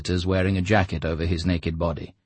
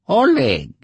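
high, loud, drawn out name; dignified introduction; 8 dB louder than usual. A narrator's reading. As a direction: announce yourself with dignity. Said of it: "introduced himself with dignity".

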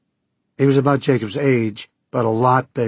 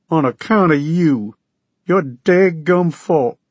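higher, louder Okie voice, insistent; demanding Okie farmer; 6 semitones higher, 5 dB louder, slower than usual. Acted. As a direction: push for money like a desperate farmer. Okie farmer blames Jacobs.

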